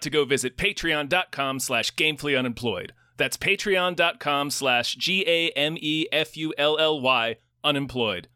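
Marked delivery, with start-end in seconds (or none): 3.2-8.3 slow letter-by-letter G A M E F U L L Y; spelling it out. Shown as a demonstration. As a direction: spell out G A M E F U L L Y slowly. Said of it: "which is spelled like it sounds".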